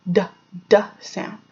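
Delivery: short tapped "d" repeated; d sound. Shown as a demonstration. Teacher showing kids the "d" sound. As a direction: tap "d" crisply, like a drum. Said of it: "D makes the d".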